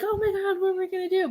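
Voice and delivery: lightly acted fretful worry; mock panic. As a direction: voice a worried parent in a high register. Voicing a worried parent's panic.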